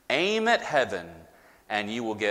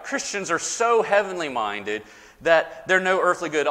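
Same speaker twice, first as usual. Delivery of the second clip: put-on the old saying, a bit higher and louder, set apart; quoting the saying; 5 semitones higher, 4 dB louder than usual. Shown as a demonstration. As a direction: hold it up as the saying people repeat. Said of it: "You've heard that, right?".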